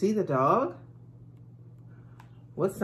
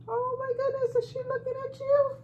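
mock amazement; faster than usual. Mock surprise at teacher.

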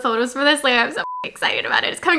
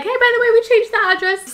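mock text message; 8 semitones higher, faster than usual. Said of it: "they texted me this morning being like".

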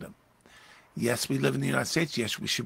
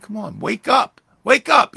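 loud, high, rising urging; urgent exhortation; 8 semitones higher, 10 dB louder than usual. Acted. Preacher as Jesus to uncomprehending disciples, urgently shouting. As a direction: shout them awake, louder the second time.

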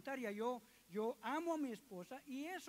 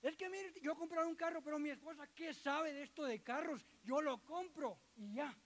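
stubborn husband; 4 semitones higher than usual. Retold or imitated.

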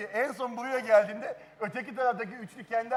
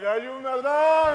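helium voice; 5 semitones higher, 6 dB louder, slower than usual. Retold or imitated. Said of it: "Tak tak tak".

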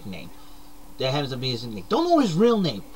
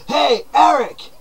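higher voice calling Hey, Eric! to the next room; 6 semitones higher than usual. Acted. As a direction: call your buddy in from the other room.

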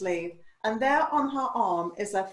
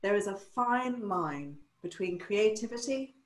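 grave mentor verdict; 7 dB quieter than usual. Retold or imitated. Mentor judging her hairstyles, quiet grave verdict. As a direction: let each phrase hang ominously.

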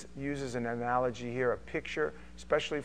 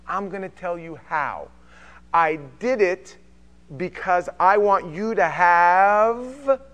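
preaching build-up; 4 semitones higher, 7 dB louder than usual. Retold or imitated. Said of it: "He says".

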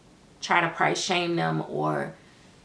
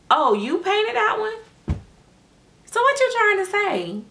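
mock high-pitched, drawn-out questions; imitating her daughter; 14 semitones higher than usual. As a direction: tease like a daughter admiring the work. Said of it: "this what she always say".

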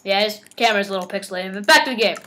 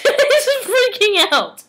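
high, slow, laughing; 10 semitones higher, much slower than usual. Real, not acted. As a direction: say it through laughter. Laughing at friend.

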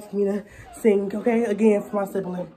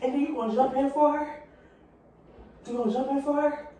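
fake argument; 3 semitones higher than usual. Acted fight with imaginary friend.

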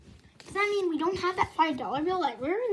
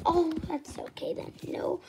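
whisper; 6 dB quieter than usual. Acted. Toy character whispers aside.

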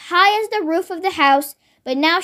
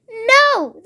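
alarmed cry; 6 semitones higher than usual. Acted. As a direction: shout to stop her drinking. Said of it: "the other two cried".

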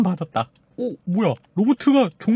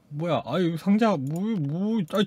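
usual speaking voice

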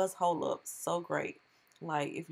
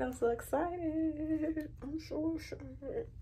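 excited; 10 semitones higher, 4 dB quieter, slower than usual. Real, not acted. Vlogger thrilled with finished hair.

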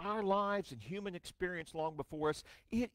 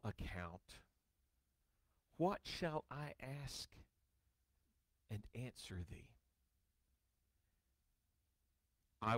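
much softer, lower and slow, small voice; humbled Job; 8 semitones lower, 7 dB quieter than usual. Acted. Job answering God, humbled and soft. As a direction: shrink before God.

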